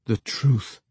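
would-be profound short answer; cryptic. A narrator's reading. Young man hoping he sounds profound, cryptic. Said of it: "the young man answered cryptically, hoping he sounded profound".

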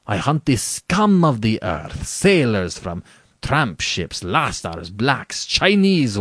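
haughty General, drawn-out emphatic words; arrogant General. Acted. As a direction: lecture with lordly conviction and sweeping pitch.

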